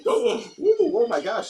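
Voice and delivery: excited squeal. Acted. Fake thrill at segment time.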